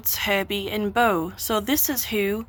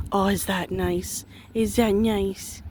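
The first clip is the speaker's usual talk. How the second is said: slow, soothing coo; slower than usual. Real, not acted. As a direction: soothe the goat while scratching it. Scratching goat.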